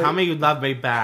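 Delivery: laughing demand through giggles. Real, not acted. Teasing a friend, laughing demand. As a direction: push for it while laughing.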